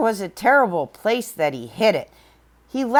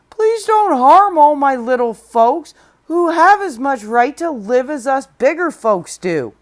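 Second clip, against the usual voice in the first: higher, louder pleading; begging plea; 4 semitones higher, 6 dB louder than usual. Acted. Horton begging the eagle to spare the Whos, pleading. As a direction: beg the eagle to spare them. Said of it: "and begged".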